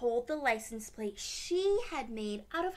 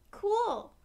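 much higher, louder amazed praise; excited wow; 3 semitones higher, 6 dB louder than usual. Acted. Classmates gushing over the license plate. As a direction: gush over it.

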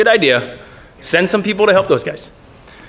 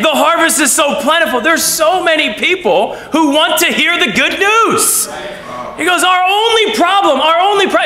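higher, fired-up preaching voice with laughs; passionate Jesus; 5 semitones higher than usual. Retold or imitated. Jesus telling disciples the harvest is plentiful, excited. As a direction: lift it up with joyful conviction.

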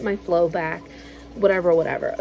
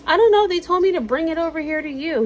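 mock innocent; 10 semitones higher, 4 dB louder than usual. Kenny plays innocent.

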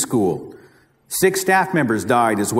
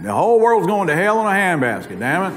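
Oklahoma accent; 4 semitones higher than usual. Shown as a demonstration. Speaker showing how Oklahomans say it, Oklahoma accent. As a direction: say it like folks back in Oklahoma, a touch country. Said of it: "except we say it with an accent".

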